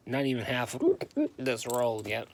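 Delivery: speaking with hiccups. Real, not acted. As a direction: hiccup breaking the words. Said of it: "Sorry, I have the hiccups".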